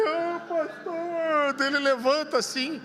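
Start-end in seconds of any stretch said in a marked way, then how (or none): 0.1-1.5 high, slow, wailing mock sob; crying man. Man sobbing on the pastor's shoulder, hammed-up wail. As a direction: stretch it out like a blubbering man. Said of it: "E dele".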